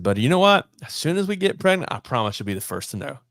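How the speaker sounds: high, loud mock promise, easing off at the end; sarcastic. Man retells promising a church lady she'll know first, sarcastically. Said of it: "with the most sarcastic tone".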